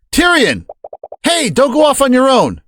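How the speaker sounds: high call after a friend running off; shouting after Tyrion to stop him. Acted.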